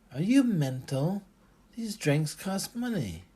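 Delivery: sharp, high, loud indignation; bristling. A narrator's reading. Barmaid bristling at a free drink offer, indignant. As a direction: bristle at him, outraged. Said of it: "She bristled".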